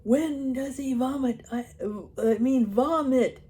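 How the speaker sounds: loud, slow, high bawl. Acted. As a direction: bellow it into his ear.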